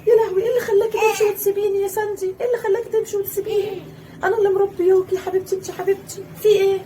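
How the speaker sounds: high, crying plea; half-sobbing relief; weeping mother pleading; tearful reproach. Acted. Finds her, tearful relief.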